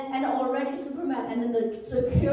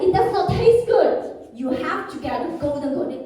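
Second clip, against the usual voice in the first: scolding; 3 semitones higher, 6 dB louder than usual. Retold or imitated. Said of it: "he was scolding me already".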